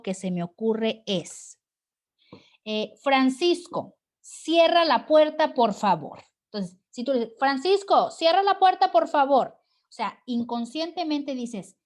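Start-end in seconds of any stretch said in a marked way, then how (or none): 3.0-6.2 fuerte orden de ejemplo; orden exclamativa. Shown as a demonstration. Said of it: "Con signos de admiración". 7.4-9.6 orden aguda y fuerte, exclamada; orden entonada. Shown as a demonstration. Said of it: "Estoy entonando".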